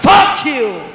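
mock American shout, slow and drawn out. American traveller to passport officer, indignant mock shout. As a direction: stretch out the outraged words like an American. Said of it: "The American guy say dey shout".

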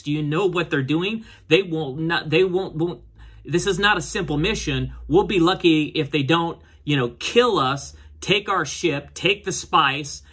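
mildly agitated warning; worked-up retelling of an urgent warning; retold flipping out. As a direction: imitate someone flipping out, half-acted. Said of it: "she starts flipping out".

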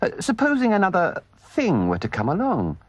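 anxious. Acted. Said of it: "asked the mole anxiously".

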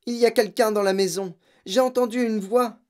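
high, anxious warning; alarmed mother. A narrator's reading. Mother warning husband of an intruder, alarmed. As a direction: raise the pitch in alarm.

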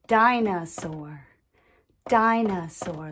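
"Dinosaur" in three measured beats; tapped syllables. Shown as a demonstration. Teacher introducing the next word, "Dinosaur" syllable by syllable. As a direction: say "Dinosaur" as di, no, saur. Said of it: "tap out the different sound groups".

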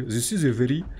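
attempted Russian accent in English; half-found Russian accent. Shown as a demonstration. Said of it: "en anglais avec accent russe".

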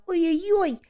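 mock wail of dread; queasy oy-oy-oy. A narrator's reading. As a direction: voice a sick-bellied 'oy-oy-oy'. Groan of a queasy belly.

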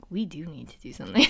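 fast, giggling through the words; barely holding in a laugh while scheming; laughing plot. Retold or imitated. Friends plotting, cracking up.

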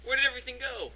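high, loud puzzled exclaim; surprised. Acted. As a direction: sound suddenly bewildered. Acted skit, cell interior lost.

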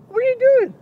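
high, loud attempted Irish lilt; badly put-on Irish accent, high and loud. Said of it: "Why am I sounding, is that Irish?".

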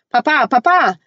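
put-on high excited little girl's squeal. Little girl calling to her returning papa, high desperate squeal. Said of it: "Peta squealed".

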